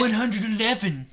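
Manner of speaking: mock Swedish-accented exclamation; put-on Swedish accent. Cornelio Fuck ends his rebuke, Swedish accent. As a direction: finish firmly in a hammed-up Swedish accent. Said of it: "stuck with the Swedish accent".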